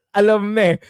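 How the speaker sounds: put-on a Kiwi accent that slides toward Aussie; playful, half-laughing New Zealand accent attempt; attempted Kiwi accent that comes out Aussie; mock Kiwi accent. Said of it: "more of an Aussie accent".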